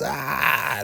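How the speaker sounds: high imitated scream of agony; high-pitched "ah" as retold pain; mock scream. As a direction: mimic a man screaming, not at full volume. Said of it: "Lewis is screaming like crazy".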